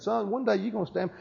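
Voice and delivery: tender and quiet, without any snideness; loving, merciful. Retold or imitated. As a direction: gently retell God's loving word to a son. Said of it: "it was a loving".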